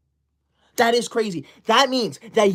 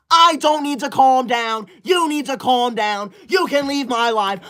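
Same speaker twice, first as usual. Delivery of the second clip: higher, slow, defensive; indignant outburst; 4 semitones higher than usual. Acted. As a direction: insist he is calm while fuming. Told to calm down.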